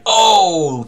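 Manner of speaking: sudden high, loud oh; a startled little oh; surprised oh. Real, not acted. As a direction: caught off guard by the roll. Dice roll of twenty surprise.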